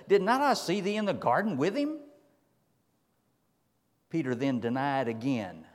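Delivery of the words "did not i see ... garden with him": servant's accusation. Acted.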